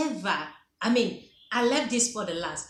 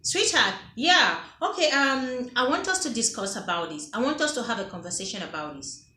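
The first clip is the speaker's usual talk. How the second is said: sweet invitation. Shown as a demonstration. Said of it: "Go ahead and say".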